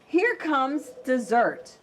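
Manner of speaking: slow, gloating wolf; sly wolf. Acted. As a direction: gloat under your breath. Wolf hears footsteps.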